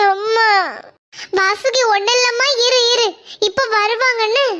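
put-on soothing her child through tears; tearful comfort. Mother comforts her sick daughter, crying. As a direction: comfort the little one while crying.

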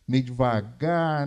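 slow, drawn-out Minas Gerais way of talking; slow mineiro drawl. Shown as a demonstration. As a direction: stretch devagar out lazily, mineiro style. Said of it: "Aquele jeito de falar assim".

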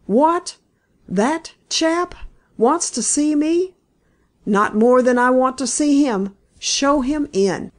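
high, indignant outburst at being visited; gruff comments. Acted. Horse dealer hears the detective has come, gruff disbelief. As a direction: bristle with disbelief, then bark the order. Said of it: "Elkin's gruff comments".

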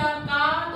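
का with its aa held long; long vowel. Shown as a demonstration. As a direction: stretch the vowel of का. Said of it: "का को हमने long बोला".

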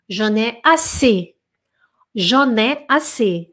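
"J'en ai assez" drawn out, nasal "J'en"; slow French model. Shown as a demonstration. Teacher models the phrase slowly for students. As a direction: stretch "J'en ai assez" slowly with a falling end. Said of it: "Vamos repetir comigo".

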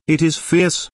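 American slang. Acted. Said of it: "said Henriette in good American".

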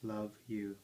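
soft, slow, tender "I love you"; gentle whisper. Acted. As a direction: murmur it to a baby.

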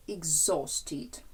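exhausted with the middle syllable stressed. Shown as a demonstration. Teacher recalling a word from the table, exhausted stressed on O. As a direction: lean on the O sound in exhausted, falling after it. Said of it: "На О".

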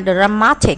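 "Dramatic" with its middle syllable emphasized; second-syllable stress. Shown as a demonstration. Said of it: "nhấn âm hai".

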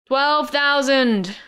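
slow, high bored yell. A narrator's reading. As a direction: yell it slowly, unimpressed. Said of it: "a bored-looking man stood and yelled".

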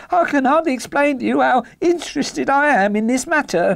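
high-pitched, gushing eagerness; excitable little man pouring out interest; eager cry. Acted. Little man explaining his interest to helper, eager. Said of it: "cried the little fellow".

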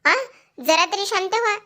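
a touch of exasperation, voice lifted high; imitating an upset wife, half-hearted anger; retold angry outburst. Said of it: "Kavya चिडते आणि म्हणत असते".

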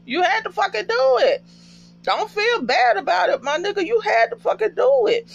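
high-pitched, insistent comforting; worked-up, high-voiced consoling; emotional reassurance. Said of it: "just hug him".

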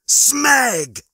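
high, loud exclaimed oath; dismayed outburst, falling from a high pitch; frustrated curse. A narrator's reading. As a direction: let the swear word burst out. Lister curses at bad news.

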